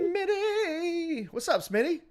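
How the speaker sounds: shouted hype welcome; excited greeting. Real, not acted. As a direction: hail him like a radio host welcoming a caller. Host calling out to caller.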